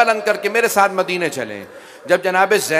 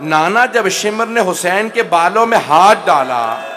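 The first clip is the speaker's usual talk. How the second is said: loud wailing lament; 3 semitones higher, 7 dB louder than usual. Acted. Zainab crying at the Prophet's tomb, loud lament. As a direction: wail it to her grandfather, building louder. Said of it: "बुलंद आवाज से रो के कहा".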